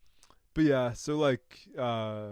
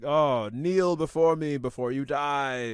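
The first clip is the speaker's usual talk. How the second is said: slow, heavy, menacing villain voice; a dark lord demanding they kneel; booming demon lord; 4 dB louder, slower than usual. Retold or imitated. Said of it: "and Voltan is like".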